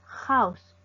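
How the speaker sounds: "House" begun with an audible H; sounded H. Shown as a demonstration. Teacher shows this H does sound, sounded H. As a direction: give "House" a clear consonant H. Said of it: "sí suena".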